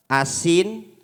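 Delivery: loud, low blurt; husband complaining the food is salty; blunt complaint. Acted.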